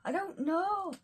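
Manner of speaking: put-on high-pitched, amateur Australian accent; attempted Australian accent. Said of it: "trying to do an Australian accent".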